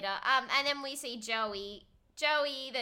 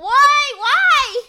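loud high laughing "why"; laughing shout; 19 dB louder than usual. Real, not acted. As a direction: shriek it through laughter. Friend reacts to helium story.

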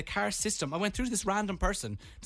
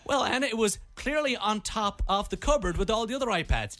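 scolding colleague; 6 semitones higher than usual. Retold or imitated. Gloria scolds Anna over the iPads.

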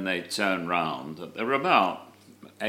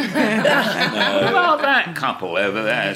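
mock eager voice; 11 semitones higher, 7 dB louder than usual. Mimicking Jack seeking fans.

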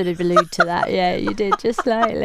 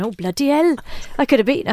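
mock Welsh accent, pitched up; bad Welsh accent; 4 semitones higher, faster than usual. Quiz host imagining Gethin Jones listening in, bad Welsh accent. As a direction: have a shaky go at a Welsh accent. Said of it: "That Welsh accent".

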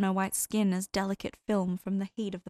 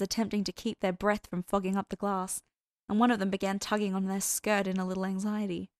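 ordinary delivery

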